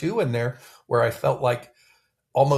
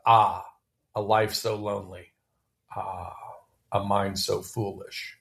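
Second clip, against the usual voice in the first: quoting sad stanza; 3 semitones lower than usual. Retold or imitated. Quoting a favourite stanza to a friend, low and mournful. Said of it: "I liked where it said".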